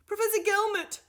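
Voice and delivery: loud, high call down the corridor. A narrator's reading. Doctor Fugg calls after the professor, loud. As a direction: call after him to stop him. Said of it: "she called out to him".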